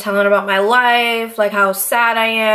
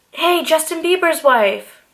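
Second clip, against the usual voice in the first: higher, slow, sing-song shout across the street; teasing call-out; 7 semitones higher, slower than usual. Retold or imitated. Paparazzi teasingly calling to her outside the club.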